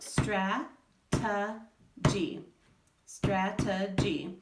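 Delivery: very slow strategy, three separate syllables; strategy broken into slow syllables; syllables tapped out. Shown as a demonstration. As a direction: tap out strategy slowly. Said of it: "broken apart in syllables".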